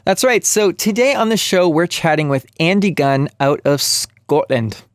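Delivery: slow, bad Scottish accent; a clumsy Scottish accent. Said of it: "that was a terrible attempt at a Scottish accent".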